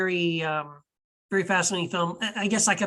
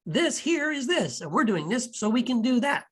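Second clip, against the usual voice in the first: higher-pitched spelled-out explaining, mildly hammed-up; mock exposition; 5 semitones higher than usual. Film fan mimics a character explaining everything, mock exposition. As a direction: spell it out like an obvious movie explainer.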